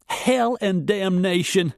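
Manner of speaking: high, slow, exclaiming in dismay; Emily exclaims after the crate hits Luke's foot; shocked exclamation. A narrator's reading. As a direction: blurt it out after a sharp breath. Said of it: "Emily exclaimed".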